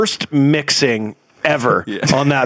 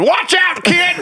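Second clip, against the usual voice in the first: imitated shouting, pitched higher. Retelling people heard in a movie scene: imitating people shouting a warning. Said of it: "hear people going".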